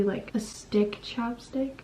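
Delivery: slow whispered aside; breathy hushed aside; whispering. Real, not acted. Drops to whisper mid-sentence.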